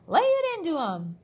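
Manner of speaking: high, loud, gleeful-villain screech; piercing egging-on; shrieking. A narrator's reading. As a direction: shriek to urge on the beating. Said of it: "she was shrieking".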